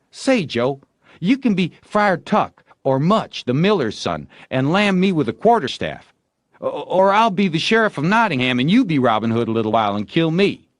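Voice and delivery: high, loud eager bargaining; placating boy. A narrator's reading. Tom offering Joe other roles, high and eager. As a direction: talk him round quickly.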